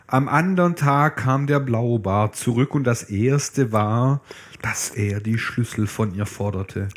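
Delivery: reading a Grimm tale aloud to a friend, steady storyteller; fairy tale reading. Acted. Reading Blaubart aloud to her co-host, storyteller voice. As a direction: read it like a bedtime story.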